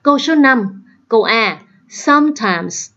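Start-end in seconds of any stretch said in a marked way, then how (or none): 1.9-2.9 "sometimes" slowly, stressed on SOME; first-syllable stress. Shown as a demonstration. Teacher showing word stress to students, first-syllable stress. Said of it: "nhấn vào âm thứ nhất".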